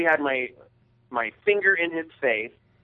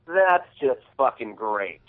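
slow, smug, sarcastic drawl on "That's just fucking great."; smug sneer; 2 semitones lower, slower than usual. Retold or imitated. Driver passing by mocks the stuck speaker, slow smug sarcasm. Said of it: "As smug and prickish as he could possibly be".

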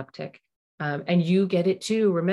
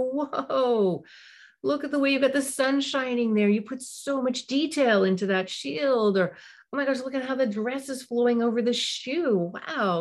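higher, wowed, noticing each detail; delighted interest; 7 semitones higher than usual. Shown as a demonstration. Parent admiring a child's drawing in detail, genuinely delighted. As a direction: marvel at the drawing. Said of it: "you go".

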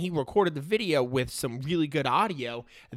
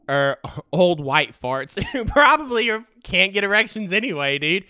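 louder, laughing at the joke; 5 semitones higher, 4 dB louder than usual. Real, not acted. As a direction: snicker through the insult. Laughs while mocking baseball fans.

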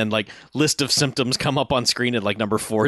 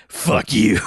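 mock shout. Punchline of the movie gag.

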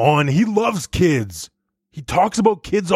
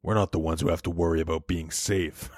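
sinister whisper; 12 semitones lower, 9 dB quieter than usual. Acted. Creepy menacing aside to mom.

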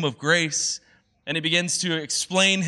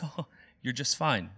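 softer, brushing-off "just fine" with falling "fine"; dismissive hostess; 3 semitones lower, 5 dB quieter than usual. Retold or imitated. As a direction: wave the problem away gently. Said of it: "the hostess says".

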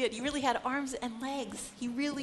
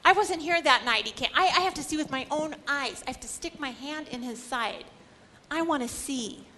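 stubborn insistence; 3 semitones higher than usual. Retold or imitated. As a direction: dig in and insist on proof. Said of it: "Thomas isn't gonna believe it".

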